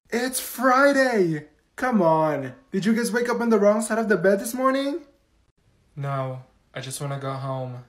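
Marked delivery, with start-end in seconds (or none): 0.1-5.0 overly cheerful teacher. Acted. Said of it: "why are you talking like that?".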